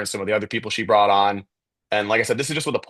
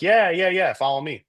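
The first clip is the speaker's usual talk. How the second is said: higher-pitched, quick-repeated agreement; eager agreement; 8 semitones higher than usual. Retold or imitated. Lady agreeing to lead a student to an office, eager. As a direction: lightly voice an obliging helper.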